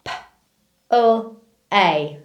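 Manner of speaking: P, L, A said as separate letter sounds; sounding out words. Shown as a demonstration. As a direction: sound out P, L, A slowly one by one. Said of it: "I'm going to sound out each word".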